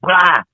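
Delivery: imitated burst of throwing up; mock vomiting sound. Patient retelling his nausea on the table, mock retch. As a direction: act out a sudden heave. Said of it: "throw up and just".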